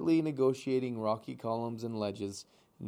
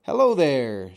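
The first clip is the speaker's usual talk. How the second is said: calling out; 2 semitones higher, 13 dB louder than usual. Acted. Otter calling out greeting.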